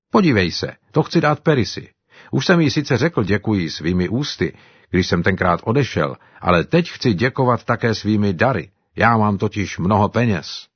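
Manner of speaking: lightly voiced African servant, eager; Simba's voice. Simba talks to Buana. (lehce odlišený hlas Simby, dychtivý)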